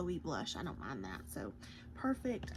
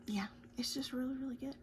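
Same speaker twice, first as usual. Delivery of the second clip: whispering; 3 semitones higher, faster than usual. Real, not acted. Quiet aside on lipstick.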